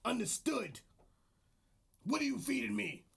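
lightly gruff wrestling promo; mild wrestler promo voice. Acted. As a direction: talk like a wrestler into the mic. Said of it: "This is my wrestler voice".

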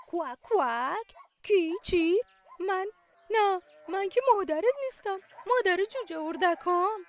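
loud quacking duck voice, a bit huffy; a busy mother duck quacking back; quacking duck mum. Acted. Mother duck answers the chick, loud quacking voice. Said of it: "اردکه گفت".

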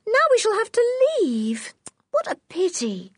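put-on high girlish cry of dismay; little girl sighing in dismay, high up; Anne dismayed. Anne sad to leave.

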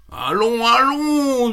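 pitched high, brisk and bouncy; a perky little rabbit scoffing kindly; high cheerful rabbit. Acted. Rabbit cheering up the crying fox, high and brisk.

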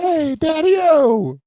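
high, drawn-out hipster call; stretched, high-pitched hepcat holler; mock swinger hail. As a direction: sing out a slow, cartoonish greeting. Mock swinger catchphrase called out.

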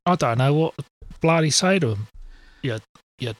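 halting attempt at Aussie; Australian accent. Podcaster struggling to insult in mock Australian accent. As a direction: imitate an Australian, feeling for the words. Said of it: "difficult to do that accent".

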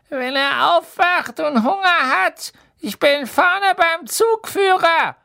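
put-on cackly old witch, kindly; a high, slow witch's voice; trolley witch.

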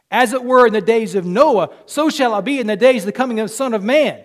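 loud, rising sermon voice; a fervent preacher lifting the congregation; full-force preaching. Acted. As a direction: preach it out to the whole room. Quoting scripture with force.

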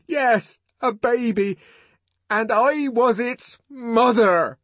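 high, loud, slow declaration; defiant challenge. A narrator's reading. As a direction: fling it at an outraged room. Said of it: "flung the obscenity like a challenge".

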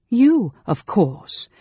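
slow, high, loud scorn; scathing. A narrator's reading. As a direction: drag the words out scathingly. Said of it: "she said scathingly".

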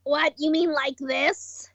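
low, slow put-on voice; slightly wrong copied voice. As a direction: joke attempt at a copied voice. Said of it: "that's not my Karkat one".

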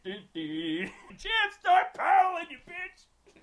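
high, hammed-up panicked yell; hollered order. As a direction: imitate yelling at a useless crewmate in a storm. Retold yelling at friend in storm.

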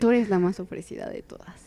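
talking through hiccups; hiccuping between words. Real, not acted. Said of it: "me dio hipo". (con hipo)

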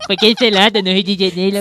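teasing carioca accent imitation; Rio accent. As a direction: copy her Rio accent. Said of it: "Ó, o sotaque".

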